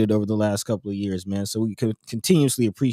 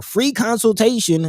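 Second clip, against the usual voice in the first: "free" pitched up for emphasis; stress on FREE; 10 semitones higher, slower than usual. Real, not acted. Host plugging a free housing consultation, stress on "free". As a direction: lean hard on the word "free". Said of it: "emphasis on the word free".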